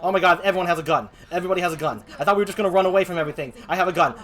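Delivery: loud, repetitive panicked babble; mounting hammed-up dismay; panicky fretting. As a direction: fret loudly, stuck on repeat. Frets at having a gun.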